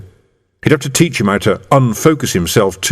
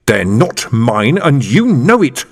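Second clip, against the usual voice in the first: snarled; 3 semitones higher, slower than usual. Acted. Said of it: "the man snarled".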